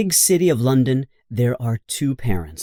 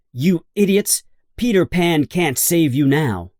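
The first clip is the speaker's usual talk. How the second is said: sneering Hook; 4 semitones higher than usual. A narrator's reading. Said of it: "Captain Hook looks at them and says".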